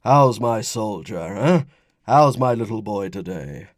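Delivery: slow, loud, playful dad voice; hearty fatherly greeting. Acted. Father greets his little boy, playfully hearty.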